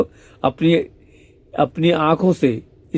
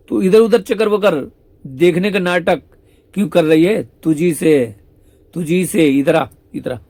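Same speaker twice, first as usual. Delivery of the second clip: higher, louder mock rebuke as Shyam Sundar; playful scolding; 4 semitones higher, 4 dB louder than usual. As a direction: call her out for pretending, raised voice. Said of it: "Shyam सुंदर कहते हैं". (ऊँची, तेज़ आवाज़ में नकली डाँट)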